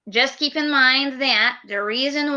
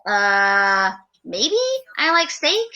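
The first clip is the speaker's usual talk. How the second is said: hesitant bad answer; 3 semitones lower than usual. Shown as a demonstration. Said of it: "An answer like that would get you booted out".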